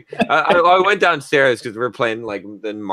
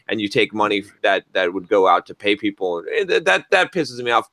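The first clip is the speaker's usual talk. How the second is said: pissed off. Retold or imitated. Telling off the customer who wasted time, angry. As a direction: vent the anger hard. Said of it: "I was pissed".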